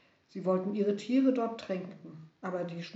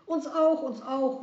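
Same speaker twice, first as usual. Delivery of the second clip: higher, louder, eager cry; eager calling; 6 semitones higher, 7 dB louder than usual. Acted. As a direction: shout it out as they leap up. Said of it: "riefen die beiden".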